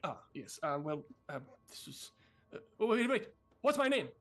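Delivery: a lightly voiced noble squirrel losing track, rising; pompous but lost, voice climbing; flustered squirrel lord.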